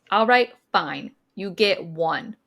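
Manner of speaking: grudging concession. Retold or imitated.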